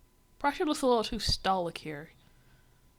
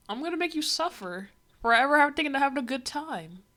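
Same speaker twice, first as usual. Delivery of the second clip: menacing Russia; 4 semitones higher, faster than usual. Retold or imitated. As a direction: ham up Russia threatening Prussia. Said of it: "and he's like".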